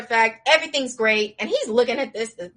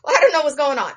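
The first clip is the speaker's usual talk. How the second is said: laughing; 6 semitones higher, 5 dB louder, much faster than usual. Real, not acted. Confused echoing, teller laughing.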